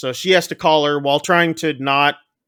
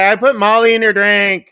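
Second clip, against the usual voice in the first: higher, louder mock admission; louder repeated confession; 5 semitones higher, 5 dB louder than usual. Friend repeats admission after "What?", louder. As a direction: repeat it up and loud, imitating the friend.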